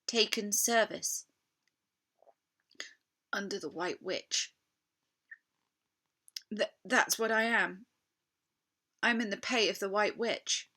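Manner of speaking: a timid faun's high, halting confession; shamefaced fawn. Acted. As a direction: own up to your guilt, stammering. Tumnus confessing to Lucy.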